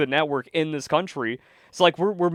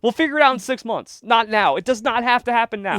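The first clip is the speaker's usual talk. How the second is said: higher-pitched, insistent brush-off; imitated impatient dismissal; 6 semitones higher than usual. Co-host voices Trump telling people to wait, higher insistent dismissal. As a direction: put them off, pitch raised.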